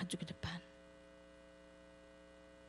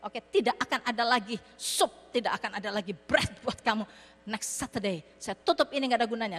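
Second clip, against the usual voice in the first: hypothetical pastor telling the homeless off; mock angry scolding; 3 dB louder than usual. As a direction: pretend tirade, louder, slamming the door on them. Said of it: "Dia bisa makiin mereka".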